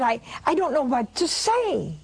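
light retold stammer on the first word; mild stammer. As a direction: stumble briefly on the opening word, as if speechless. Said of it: "I stammered".

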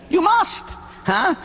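emphatic insistence. Real, not acted. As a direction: press the point hard on the congregation. Preacher insisting on confession.

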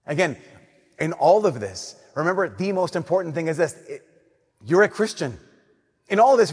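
ordinary talk, nothing marked

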